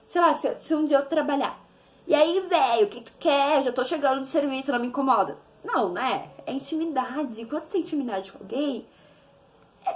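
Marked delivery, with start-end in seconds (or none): 2.1-5.4 hammed-up tired brush-off; mock grumpy brush-off to father on the phone; mock grumpy answer. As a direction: grumble like you just got home from work. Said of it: "Claro que eu não vou chamar de velho".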